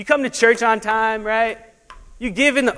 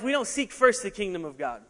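normal talking voice

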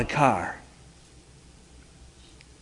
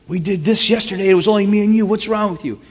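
higher, louder exasperated insistence; 9 semitones higher, 5 dB louder than usual. Retold or imitated. Insisting to his confused buddy, exasperated. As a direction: make him believe it's you. Frustrated on phone.

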